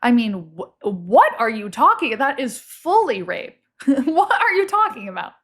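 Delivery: incredulous and laughing; shocked. Real, not acted. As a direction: call out the joke, aghast. Shocked at rape joke.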